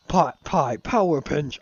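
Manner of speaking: loud, slow, named-move yell; slow attack shout. Acted. Monster calling out its ultimate attack, loud and slow. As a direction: bellow the move name like an anime attack.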